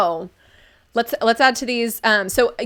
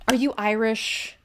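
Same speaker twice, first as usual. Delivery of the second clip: excited gasp. Real, not acted. Gasp at chat being Irish.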